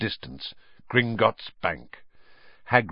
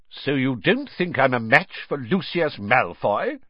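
indignant; 5 semitones higher than usual. Acted. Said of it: "said Mister Weasley indignantly".

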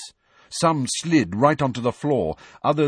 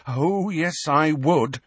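higher, grimly determined; 7 semitones higher, slower than usual. A narrator's reading. Hermione stands by her threat to George, grim. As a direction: confirm the threat with relish. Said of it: "said Hermione grimly".

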